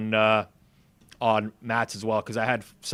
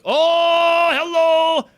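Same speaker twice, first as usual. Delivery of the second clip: hammed-up shriek, much higher and louder; mock squeal; 10 dB louder, much slower than usual. Joking about the word si, mock squealed greeting. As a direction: squeal the greeting like a cartoon lady. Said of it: "Si is like".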